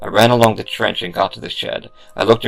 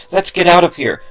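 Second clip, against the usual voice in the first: scream; 10 semitones higher, 5 dB louder than usual. Acted. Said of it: "Marcus finally screamed".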